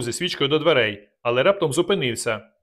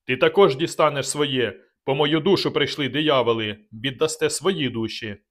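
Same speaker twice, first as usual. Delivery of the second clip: thundering threat. Acted. Dubatovk threatening the attackers, slow thundering threat. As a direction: threaten them like a cornered beast. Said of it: "гримів голос Дубатовка".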